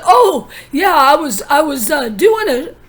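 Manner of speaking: nervous. Retold or imitated. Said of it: "he looked nervous that I pegged him".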